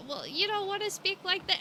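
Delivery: high mock scold of her accent; mocking chat. Chat scolding her accent, mock prim high voice. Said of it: "y'all over here".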